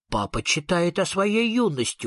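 ordinary delivery, nothing marked

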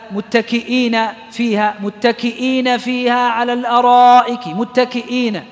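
measured recited phrase; teacher recites a Quran example; Quranic recitation. Shown as a demonstration. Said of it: "Quran example recited".

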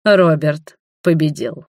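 slow, solemn announcement; grand entrance announcement. Acted. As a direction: proclaim the news with ceremony. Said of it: "торжественно объявил".

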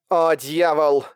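негромкая досада, как на выдохе; выдохни ругательство с досадой. A narrator's reading. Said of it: "выдохнула Фестиваль". (на выдохе)

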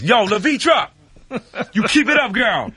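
put-on calling out to a girl. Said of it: "like a black girl I went to school with".

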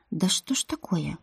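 unvoiced whisper to herself; inner whisper. Heroine whispers her flustered thought to herself. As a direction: breathe the words as a secret thought.

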